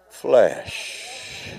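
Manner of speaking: sudden breathy whisper after the shouting. Acted. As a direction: drop it to a whisper for effect. Preaching climax drops to whisper.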